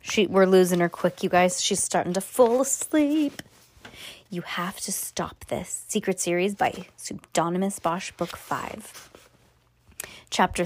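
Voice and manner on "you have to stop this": whisper. Real, not acted. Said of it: "aside while child sleeps".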